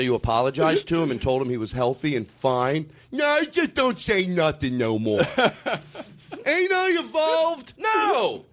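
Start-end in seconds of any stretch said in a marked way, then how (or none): 3.1-5.2 put-on dumb accent. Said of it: "dumb accent". 5.2-6.0 laugh. Real, not acted. Laughs at own dumb voice. 6.5-8.4 high, mocking dumb-guy shout; hammed-up dumb voice yelling. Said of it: "you're putting a dumb voice on it".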